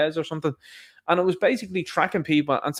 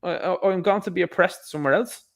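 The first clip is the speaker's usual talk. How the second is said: higher, hesitant mock refusal; drawn-out "uh", then decline in a raised voice; 5 semitones higher than usual. Imitating people declining the invitation, higher hesitant refusal. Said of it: "these people are like".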